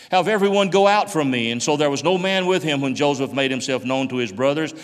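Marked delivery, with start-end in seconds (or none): 0.1-1.5 raised, louder command; crying out. A narrator's reading. Joseph sends everyone out before revealing himself, crying out. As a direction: cry it out from the pulpit. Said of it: "and he cried".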